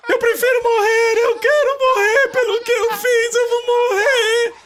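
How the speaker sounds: high, whiny mock sobbing; mock whining. Mocking a crying believer who begs to die, in a high whine. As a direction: ham up a self-pitying wail. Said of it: "Por que você está aí chorando?".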